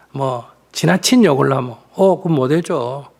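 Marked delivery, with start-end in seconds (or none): 1.9-3.1 matter-of-fact, no-nonsense no; firm refusal. Shown as a demonstration. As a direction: cut it off plainly and calmly. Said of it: "이렇게 딱 자를 건 자르지". (딱 잘라 거절하듯)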